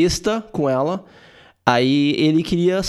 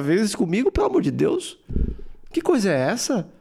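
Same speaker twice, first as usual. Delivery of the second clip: mock outrage. Parodying the guy's indignant complaint.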